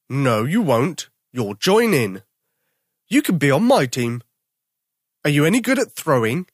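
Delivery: put-on a big bear drafting the boy onto his team; bossy daddy bear. Daddy bear recruits Tom, loud and hearty.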